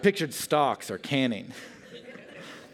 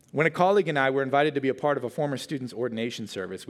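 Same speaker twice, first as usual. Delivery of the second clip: ordinary delivery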